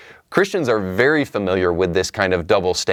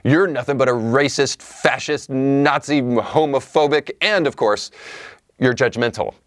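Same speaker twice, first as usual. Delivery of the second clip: mocking accuser; 4 semitones higher than usual. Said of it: "what we typically get back in response is".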